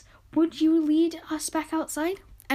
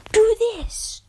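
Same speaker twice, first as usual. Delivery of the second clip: loud, higher bossy order; mock bossy order; 9 semitones higher, 6 dB louder than usual. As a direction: bark it like a pushy fan giving orders. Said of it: "so then you can email me saying".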